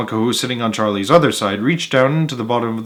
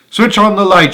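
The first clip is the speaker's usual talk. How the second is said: higher, louder command; shouted; 8 semitones higher, 7 dB louder than usual. A narrator's reading. Wonka ordering the lights on, loud shout. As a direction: call it out to the crew. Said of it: "shouted Mister Wonka".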